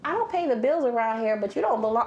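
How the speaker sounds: high, indignant dad yelling; a hammed-up furious father; mock angry dad. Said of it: "he's just like".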